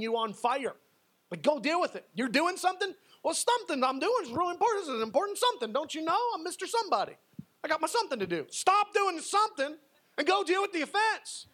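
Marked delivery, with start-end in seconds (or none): 2.1-11.5 much higher, puffed-up, pompous voice; mock self-important man. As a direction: lampoon a busy big shot. Mocks a self-important busy person.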